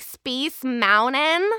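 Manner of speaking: "Mountain" with an N for the T; dropped T. Shown as a demonstration. Actor teaching LA speech, "Mountain" with the T dropped. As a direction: say "Mountain" slowly as Moun-nen, Valley girl style. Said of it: "an N in place of the T".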